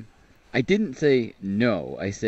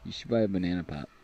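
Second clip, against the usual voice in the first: whispering; 4 semitones lower, 6 dB quieter, faster than usual. Real, not acted. Teasing aside.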